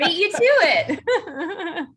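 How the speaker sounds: slow teasing words through laughter; laughing. Real, not acted. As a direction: laugh while you tease.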